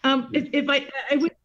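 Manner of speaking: choppy call audio; words dropping on a frozen video call; bad connection. Real, not acted. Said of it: "you've all frozen".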